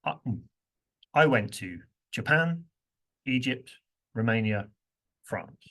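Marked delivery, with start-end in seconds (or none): 1.1-5.6 each place name stressed, steady beat; stressed list of places. Shown as a demonstration. Teacher demonstrating stress timing to the class, steady beat. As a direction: tap out Japan, Egypt, Romania, France evenly. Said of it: "Listen to this".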